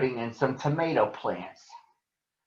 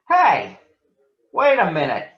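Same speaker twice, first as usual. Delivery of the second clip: loud, higher call; 6 semitones higher, 6 dB louder than usual. Acted. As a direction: call after him. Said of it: "called Too Tall".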